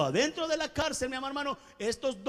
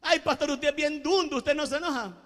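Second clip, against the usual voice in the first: mocking coworker taunt; 4 semitones higher, 3 dB louder than usual. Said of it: "el que se enoja pierde".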